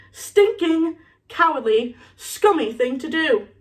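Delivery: high first word, then spaced-out contempt; angry scolding. Acted. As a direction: punch out each insult separately. Moody scolds while bouncing the ferret.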